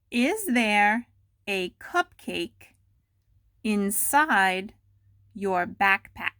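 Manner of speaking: slow, deliberate dictation of a question; careful slow dictation to students. Shown as a demonstration. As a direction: spell it out word by word for the class. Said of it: "Go slow".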